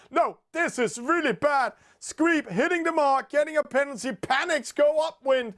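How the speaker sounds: high, urgent commentary on a disaster; high-pitched dismayed play-by-play; dismayed excitement. Real, not acted. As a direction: call the blunder with alarm. Team blunders at gate mark.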